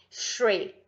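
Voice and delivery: "Shriek" said slowly and clearly, teacher modeling; pronunciation demo. Shown as a demonstration. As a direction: model "Shriek" for the class to repeat. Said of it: "Vamos de pronúncia". (pronúncia lenta e clara de "Shriek")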